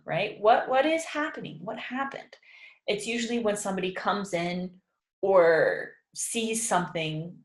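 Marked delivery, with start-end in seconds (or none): 0.4-2.3 1 confused surprise. Shown as a demonstration. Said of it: "when we have no idea what is going on".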